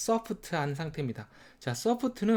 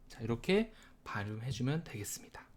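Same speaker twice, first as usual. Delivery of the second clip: whisper; 4 semitones lower, 7 dB quieter than usual. Real, not acted. Whispered wrap-up.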